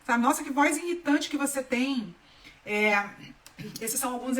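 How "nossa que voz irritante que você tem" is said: retold irritated jab; mock annoyance. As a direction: imitate someone irritated by a voice. Acting out complaint about her voice.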